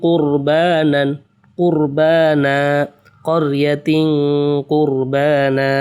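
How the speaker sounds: কুরবানা ending on a long drawn আ; slow, with the final a stretched; teacher showing the pause form কুরবানা; stopping with a long a. Shown as a demonstration. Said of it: "এক জবর বাদ দিয়ে এক আলিফ টেনে পড়তে হবে".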